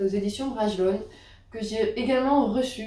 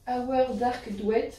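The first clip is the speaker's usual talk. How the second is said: bad English accent; 2 semitones higher, much slower than usual. Real, not acted. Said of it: "excusez mon accent anglais qui est, euh, très mauvais".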